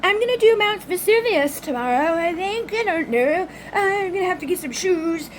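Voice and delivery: breezy high imitation of friend. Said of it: "And she's, you know".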